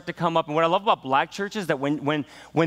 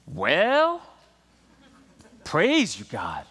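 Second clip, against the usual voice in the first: congregation calling out; 4 semitones higher, slower than usual. Retold or imitated. Grandmothers answering the speaker, calling amen. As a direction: shout it back like an old churchgoer. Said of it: "start breaking out and saying".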